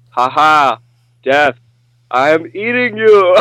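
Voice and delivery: imitating a French villain's accent, gleefully; mock French accent, savoring the word death. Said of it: "in that French accent".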